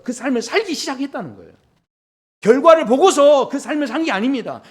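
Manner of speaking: high, insistent sermon delivery; fervent preacher building to loud emphasis; impassioned preaching. Real, not acted. Preaches at raised intensity.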